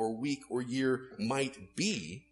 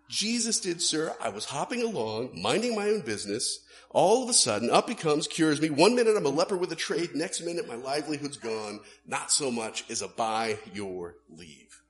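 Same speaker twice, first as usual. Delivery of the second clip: louder mid-run, indignant tradesman; grumbling ex-leper; 4 dB louder than usual. Retold or imitated. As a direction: complain he lost his trade. Ex-leper retells his cure.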